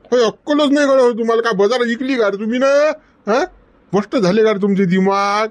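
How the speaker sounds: boss's exasperated rant; acted scolding. Boss berating his staff.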